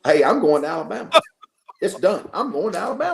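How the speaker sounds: high, loud, rising retold glee; excited youngster. Player announcing his college choice, excited. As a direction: imitate a kid blurting out his decision.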